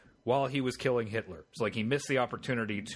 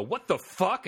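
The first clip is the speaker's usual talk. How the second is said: higher-pitched, incredulous outburst; shocked reaction; 8 semitones higher, 4 dB louder, slower than usual. Acted. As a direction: blurt it out in disbelief. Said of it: "a normal human reaction would be to go".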